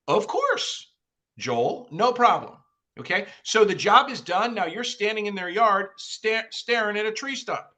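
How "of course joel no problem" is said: eager homeowner. Retold or imitated. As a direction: play the happy client saying yes. Homeowner voiced agreeing to visit.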